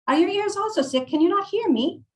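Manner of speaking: put-on very high, impatient Italian-accented nagging; squawky put-on Italian accent; Maria, Italian accent. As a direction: demand attention as an exasperated old Italian woman. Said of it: "I'm going to butcher an Italian accent".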